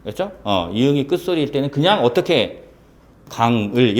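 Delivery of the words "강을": "강을" with ㅇ kept at the end of 강; final sound kept. Shown as a demonstration. Teacher showing how final ㅇ stays put, "강을" pronounced gang-eul. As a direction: say "강을" as gang-eul, not moving the ng onward. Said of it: "이렇게 발음을 하는 거야".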